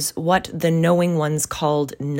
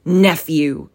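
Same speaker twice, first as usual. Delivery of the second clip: firm, louder rebuke; stern; 5 dB louder than usual. Acted. Uncle answers his pleading nephew, stern. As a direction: cut him off sternly with a falling tone. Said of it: "returned the uncle sternly".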